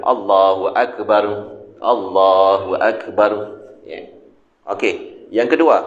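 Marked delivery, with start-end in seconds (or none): 0.1-3.6 said plainly. Shown as a demonstration. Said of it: "sebut biasa-biasa tuan-tuan".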